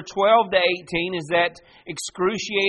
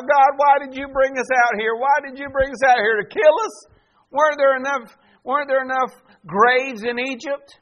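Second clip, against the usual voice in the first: high, loud desperate wail at God; crying out; 9 semitones higher, 8 dB louder than usual. Acted. Israelites trapped at the sea cry out to God, loud and high. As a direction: cry out in panic, louder and higher. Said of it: "they begin to cry out".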